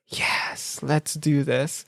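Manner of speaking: mock whispered yes, slow; eager hush. Telling friends about his dinner invitation, eager hushed reply. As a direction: whisper it like a secret thrill.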